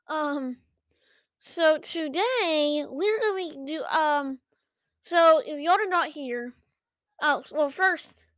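out of breath from running; breathless, gasping between words; gasping between phrases. Real, not acted. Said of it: "I'm out of breath 'cause I was running".

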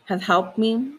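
measured scripture reading with long pauses; prayer reading. Real, not acted. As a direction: read the prayer out solemnly, phrase by phrase. Reads a psalm aloud.

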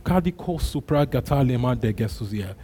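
murmured tongues prayer, steady; praying in tongues. Real, not acted. Preacher praying in tongues with the online church. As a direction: let the tongues flow softly. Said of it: "for a minute in tongues".

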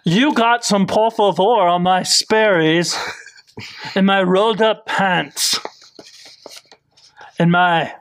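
whispered mocking impression of an entitled guest; snooty whisper. Hosts mocking a VIP reviewer, whispered snooty impression. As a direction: hiss it like a spoiled rich tourist. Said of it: "she says".

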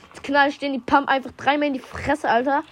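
angry. Real, not acted. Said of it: "jetzt bin ich wütend".

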